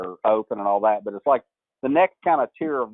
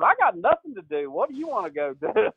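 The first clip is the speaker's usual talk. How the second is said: laid-back Boo; 8 semitones higher than usual. Retold or imitated. Boo turns the reporter's question back, lazy mock voice. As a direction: toss it back casually, stalling her. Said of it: "He goes".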